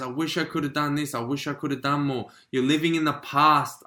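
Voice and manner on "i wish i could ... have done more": soft, sad, rueful; wistful and softer; quiet regret. Retold or imitated. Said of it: "the depression stage and the sadness".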